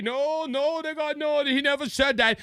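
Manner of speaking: mock press secretary denial; hurried, hushed denial; Karine Jean-Pierre. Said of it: "Karine Jean-Pierre tried to say".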